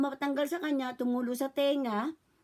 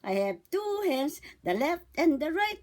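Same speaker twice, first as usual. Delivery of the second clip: put-on talking to a baby; 4 semitones higher than usual. Shown as a demonstration. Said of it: "Narinig po yan".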